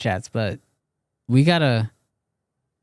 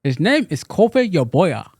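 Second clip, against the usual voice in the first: put-on African accent. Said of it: "put on your African accent".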